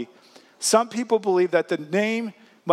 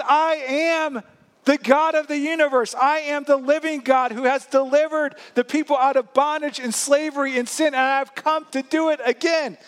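higher, ringing voice of God declaring himself; Jesus proclaiming; 5 semitones higher than usual. Acted. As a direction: proclaim it like a triumphant Savior. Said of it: "He says".

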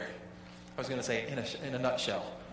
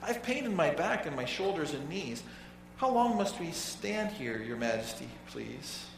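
meek little turtle Mac; 4 dB quieter than usual. Acted. Mac begging King Yertle from the bottom, timid and pleading. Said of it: "this plain little turtle looked up and said".

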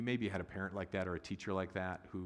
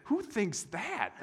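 slow, high, disbelieving; incredulous; 13 semitones higher, 5 dB louder, much slower than usual. Retold or imitated. Pastor mocking whoever would welcome the suits, slow incredulous. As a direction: stretch it out in mock disbelief. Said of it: "I'm like".

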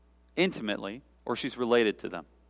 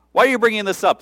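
higher and louder, exasperated why; louder exasperated take; 9 semitones higher, 8 dB louder, faster than usual. Shown as a demonstration. Jesus repeating his question to Mary, higher and louder. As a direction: push the question harder the second time. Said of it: "repeat said louder and higher".

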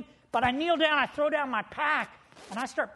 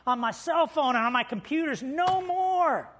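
pleading to wife; 3 semitones higher than usual. Retold or imitated. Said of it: "you say".

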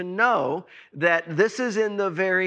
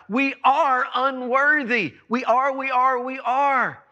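fervent; 5 semitones higher than usual. Real, not acted. Rising fervent preaching.

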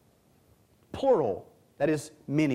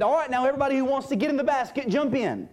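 quick, higher-pitched casual call; mock open invitation; 9 semitones higher, much faster than usual. Preacher mocks God inviting everybody into the basket, quick casual call. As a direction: rattle it off like rounding up a crowd.

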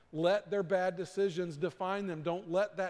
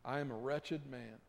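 crying out to God; 4 dB louder than usual. Retold or imitated. A repentant captain cries out to God, loud then hushed. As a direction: cry out for mercy, then drop your voice in shame. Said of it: "he cried out".

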